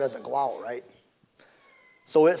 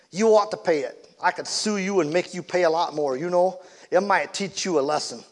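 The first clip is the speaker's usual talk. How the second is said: raised, threatening voice, high at the start; harsh demand; 4 semitones higher, 3 dB louder than usual. Acted. Angry driver threatening to sue Dad, mildly harsh. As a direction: lean on him with a threat.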